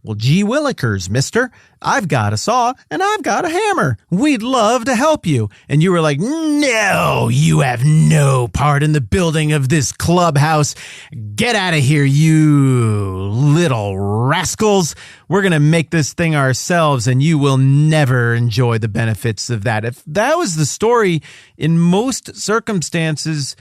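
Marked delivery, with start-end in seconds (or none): 0.0-1.5 put-on higher eager golly-gee kid voice; wholesome 1950s kid. Neighbor kids offering help. 1.8-5.5 put-on high, eager golly-gee kid voice; wholesome 1950s kid. Neighbor kids offering help. 6.2-19.9 louder, slow, haughty brush-off; snooty kid. Retold or imitated. Clubhouse owner rejecting kids.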